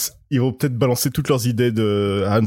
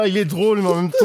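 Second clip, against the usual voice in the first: amused exclamation; 8 semitones higher, faster than usual. Retold or imitated. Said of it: "je suis là".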